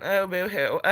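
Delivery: lightly mocking self-pity; half-hearted pretend sob; mock boo-hoo. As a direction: tease yourself for crying. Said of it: "like, crying on here".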